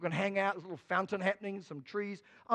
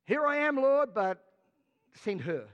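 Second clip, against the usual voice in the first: higher, louder hammed-up Moses passing the buck; a hint of Moses pointing elsewhere; mock Moses; 3 semitones higher, 4 dB louder than usual. Moses answering God but passing the job on, mock dodge. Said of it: "He says".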